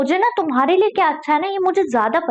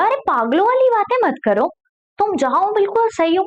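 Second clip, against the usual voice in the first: higher, scolding princess voice; 7 semitones higher than usual. Acted. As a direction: tell the bird off from above. September voiced scolding the bird. (ऊँची आवाज़ में डाँटती राजकुमारी)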